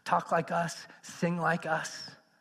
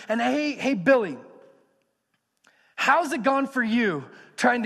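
raised, lively voice of Peter gathering the elders; playful Peter voice; 4 semitones higher, 5 dB louder than usual. Acted. Peter calling the elders together, lively and raised. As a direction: call the elders in like an eager leader.

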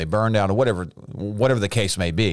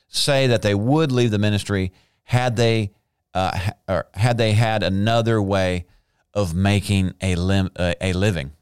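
tripping over the words; stuttering. Real, not acted. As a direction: stumble and restart mid-sentence. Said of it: "Excuse me for stuttering over this sentence".

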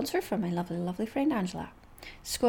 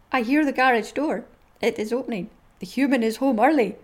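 dog's thoughts voice; 5 dB louder than usual. Acted. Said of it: "read you some more".

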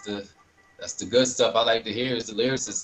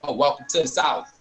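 put-on Southern accent; 4 semitones higher than usual. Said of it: "they had their own accent".

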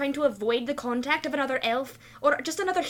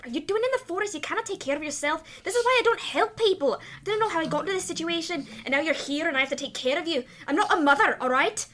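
exasperated in-character rant, pitch jumping up; put-upon complaint, more aloud than muttered; muttered grumbling; 3 semitones higher than usual. Acted. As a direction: grumble crossly through a scolding. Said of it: "muttering to myself as I wrap in".

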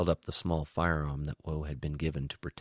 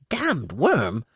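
loud, high outburst; furious shout; 10 semitones higher, 9 dB louder than usual. A narrator's reading. Woe erupts at the alien spy, shouting. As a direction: shout it as if about to explode. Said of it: "Woe shouted as his head felt ready to explode".

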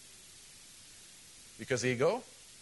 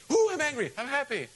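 mock mood switch; 11 semitones higher, 5 dB louder than usual.

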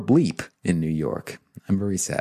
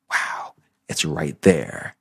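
slow, breathy whispered aside, sarcastic; 4 semitones lower, slower than usual. Real, not acted. To viewers about the agenda tab, a slow sarcastic whisper. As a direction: let it slip out in a hushed, mocking hiss.

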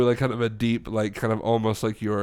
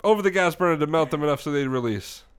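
put-on Italian accent; 3 semitones higher than usual. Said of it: "Anyway, continue".

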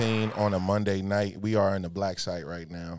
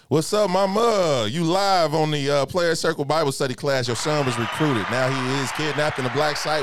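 loud mock announcement; 6 semitones higher, 5 dB louder than usual. Host teasing a friend's mom on the phone, loud mock-official voice. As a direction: boom it out like a mock interrogator. Hosts tease mom on call.

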